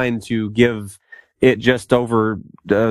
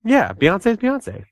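reverent hype; 9 semitones higher than usual. Acted. Hailing a singer as queen.

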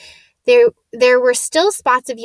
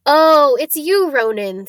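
loud, raised "oh" easing off; relieved; 5 semitones higher, 5 dB louder than usual. A narrator's reading. Hagrid recognises the centaur he knows, relieved. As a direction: greet a friend after a false alarm, relieved. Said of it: "said Hagrid in relief".

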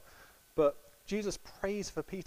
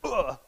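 mock effort grunt; 4 semitones higher, 7 dB louder than usual. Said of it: "Peter went".

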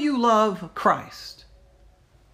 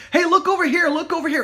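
mock call-out; 8 semitones higher, faster than usual. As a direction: call out like a voice grabbing attention. Voicing the world calling for attention.

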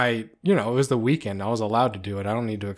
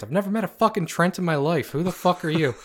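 higher, mock-irate challenge; indignant disbelief; 5 semitones higher, faster than usual. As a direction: challenge the stranger in retold outrage. Retold sleepy argument with unknown caller.

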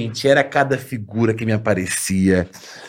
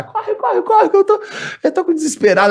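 shrill panicked yell, much higher; retold scream. Girl screaming at friends to run after crash, panicked yell. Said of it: "a menina começou a gritar".

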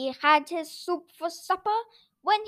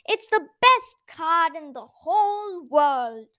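happy boasting; 6 dB louder than usual. A narrator's reading. Noddy praising his car happily.

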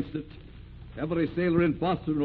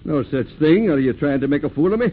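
irritated scolding; 3 semitones higher, 8 dB louder than usual. Acted. Skipper scolds man for posture.

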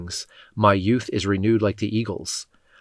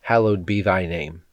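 prayer. Acted. Leader prays the Lord's Prayer with the congregation, reverent and steady. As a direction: pray it aloud, steady and devout.

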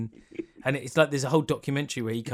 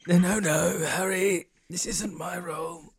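put-on Mark Wahlberg Bostonian accent; 5 semitones higher than usual. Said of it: "In a Bostonian accent, please, Dan".

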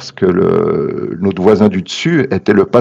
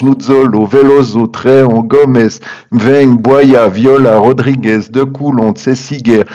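out of breath; 3 semitones higher than usual. Real, not acted. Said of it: "Et j'ai plus de souffle".

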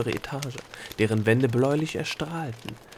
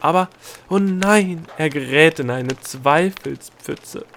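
alarmed; 5 semitones higher, 8 dB louder, slower than usual. A narrator's reading. Gnome sees the thought sink.

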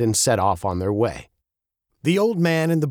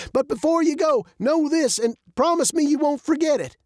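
put-on high-pitched urgent old man; old man, earnest. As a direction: press them to promise, voice lifted high.

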